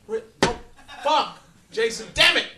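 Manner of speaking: loud, high exasperated shout; full-throated cry of frustration; frustrated yell. Real, not acted. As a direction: blow up at Jason. Frustrated outburst at Jason.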